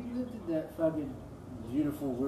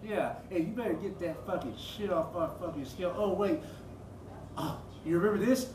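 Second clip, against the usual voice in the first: furious yelling; 4 semitones higher than usual. Retold or imitated. Yelling at the woman who shut him out, high and furious. Angry confrontation over dope sack.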